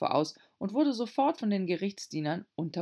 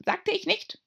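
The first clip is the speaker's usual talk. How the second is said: hasty; 3 dB louder than usual. A narrator's reading. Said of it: "unterbrach der Märzhase eilig".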